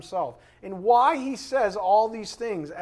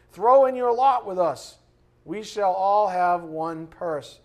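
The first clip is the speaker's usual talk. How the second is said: loud tempting invitation; 6 dB louder, slower than usual. Acted. Voicing sinners' invitation.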